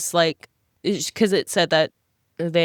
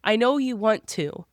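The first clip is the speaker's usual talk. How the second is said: scolding Bella; 5 semitones higher, slower than usual. Retold or imitated. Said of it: "I'm like".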